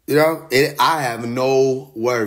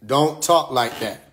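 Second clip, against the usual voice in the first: slow repeat; slower than usual. Shown as a demonstration. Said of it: "I'ma say it again".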